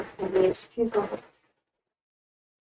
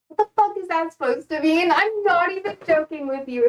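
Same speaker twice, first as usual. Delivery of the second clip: mildly exasperated, higher-pitched comeback; frustrated retort; 5 semitones higher than usual. Retold or imitated. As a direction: replay a fed-up kid's retort. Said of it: "And I'd get so frustrated with her".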